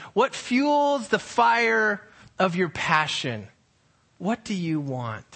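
slow, searching questions, each one weighed; earnest preaching questions. Acted. Pastor pressing the congregation with slow earnest questions. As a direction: ask them slowly, let each question land.

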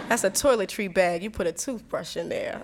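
laughing through the line; laughing quote. Retold or imitated. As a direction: chuckle while naming it. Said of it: "you're like".

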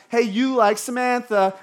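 high, loud schoolkid accusation. Acted. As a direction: call out a classmate's crush, loudly. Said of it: "when a junior hire is accused of having a crush".

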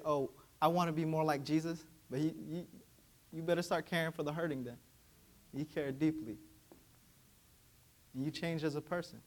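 usual speaking voice

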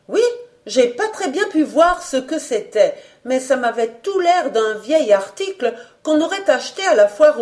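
a hint of a talkative concierge; la vieille Marie-Jeanne. Marie-Jeanne's account in her voice. (concierge bavarde légèrement jouée, un peu plus aiguë)

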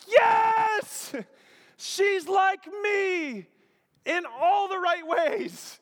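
very high, loud, drawn-out cry of joy; exuberant shout. Acted. Preacher voicing Adam's first sight of woman, exuberant shout. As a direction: stretch every phrase out in a jubilant shout. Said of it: "notice the exuberance here".

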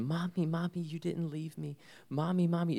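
put-on high, pleading little girl calling for mommy; little girl's voice. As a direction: voice the child reaching for her mother, pitched high. Daughter voiced in retold reunion.

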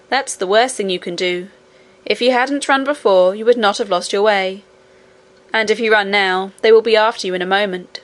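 a hint of a sensible young miner; lightly voiced miner boy. Little miner warns princess and nurse, lightly voiced.

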